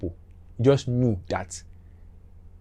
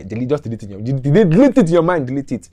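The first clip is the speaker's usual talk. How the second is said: insistent; 4 semitones higher, 8 dB louder, faster than usual. Real, not acted. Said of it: "tells listener to forget".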